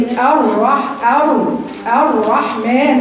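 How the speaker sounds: very slow الرحمن with a long multiple trill on the r; over-rolled r. Shown as a demonstration. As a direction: drag out and over-roll the doubled r. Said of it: "قررت كتير".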